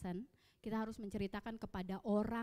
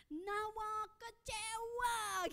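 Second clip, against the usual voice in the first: put-on higher, very slow, drawn-out child's wail; child's cry; 11 semitones higher, much slower than usual. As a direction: stretch it out like a hurt child crying. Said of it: "dia teriak bilang". (anak yang berteriak kecewa, ditirukan tinggi dan sangat lambat)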